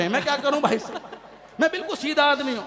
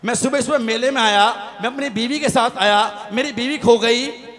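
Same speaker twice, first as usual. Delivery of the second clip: building punchline; 4 dB louder than usual. Acted. Comedian landing the wife-lost-at-fair punchline, building loud. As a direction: build to a proud shout.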